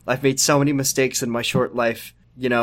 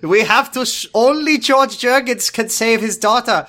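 higher put-on voice, with laughter; high mock-earnest doctor; hammy doctor voice; 9 semitones higher, 3 dB louder than usual. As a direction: play the doctor's absurd plan straight-faced. Doctor James voiced comically.

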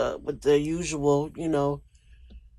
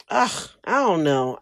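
a real catch of tears in the voice; choking up. Real, not acted. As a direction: let the crying break through the words. Tearing up over her late dad.

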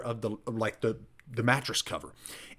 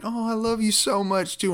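much higher, gushing wife impression; imitated wife; 11 semitones higher than usual. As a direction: mimic a wife tearfully returning affection. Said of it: "she's like".

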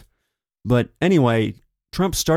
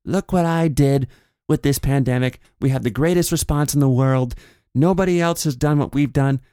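higher, bragging imitation; mock Trump boast; 4 semitones higher than usual. Trump bragging about his pandemic response, higher mock boast. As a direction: puff it up like a showman. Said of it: "something to the effect of".

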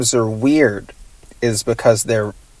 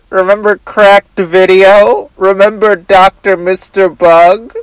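raised, louder goofy host voice; Doctor Bug voice; 4 semitones higher, 4 dB louder than usual. Pretend. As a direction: ask it like a silly bug scientist. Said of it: "I'm specifically now doing the Doctor Bug voice".

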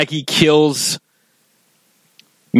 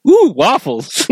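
much higher, slow, delighted "ooh"; imitating Lisa; 11 semitones higher, 4 dB louder, slower than usual. Fan imitates Lisa, delighted by waffles, much higher and slow. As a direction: coo over the waffles as Lisa.

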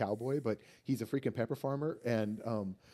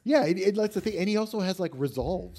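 louder, higher excited burst; 8 semitones higher, 8 dB louder than usual. Real, not acted. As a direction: jump in with excitement. Excited point about healing.

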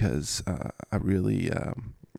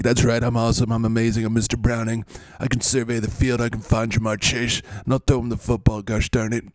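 lightly voiced bragging; Mister Browning. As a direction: boast in a mildly pushy way. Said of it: "really brag".

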